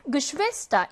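Geschwister with SCHWIS stressed; second-syllable stress. Shown as a demonstration. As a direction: model Geschwister, hitting the middle syllable. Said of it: "이 음절 강세어입니다".

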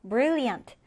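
"brilliant" with BRIL punched first; stress on first syllable. Shown as a demonstration. Teacher models the first-syllable stress for students. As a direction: land the weight on BRIL in "brilliant". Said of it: "첫 음절에 강세를 두고".

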